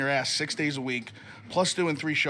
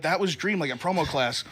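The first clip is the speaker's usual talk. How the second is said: ordinary talk, nothing marked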